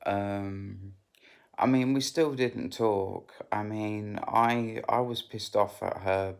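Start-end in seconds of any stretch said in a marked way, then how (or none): 1.6-3.3 whispered aside. Real, not acted. Aside about not talking.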